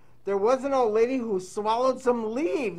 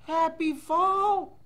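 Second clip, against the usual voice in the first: slow storybook read; 6 semitones higher, 3 dB louder, much slower than usual. Shown as a demonstration. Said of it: "And it says".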